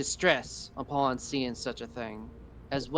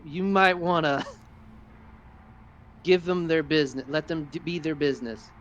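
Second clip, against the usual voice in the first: laughing warning; 3 semitones higher, 4 dB louder, faster than usual. Acted. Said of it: "is like".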